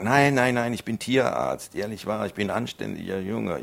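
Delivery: high, loud panicky protest; desperate yelps of innocence; frantic denial. Acted. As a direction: talk your way out fast. Pleading with armed farmer.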